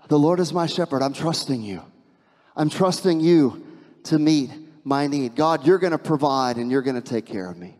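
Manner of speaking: a hushed prayer of trust. Pretend. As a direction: pray it under your breath. Praying through stress.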